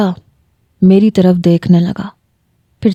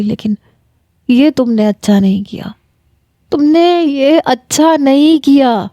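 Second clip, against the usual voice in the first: mild sobbing; 3 semitones higher than usual. Acted. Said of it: "پھر وہ پھوٹ پھوٹ کے رونے لگا".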